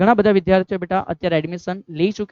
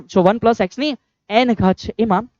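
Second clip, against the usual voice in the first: slow, careful repeat; 3 semitones higher, 3 dB louder, slower than usual. Shown as a demonstration. Teacher repeats the formula slowly so students note it. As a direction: repeat "જો one plus x ની n ઘાત" slowly, leaning on "n". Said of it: "બધા ધ્યાન રાખશે".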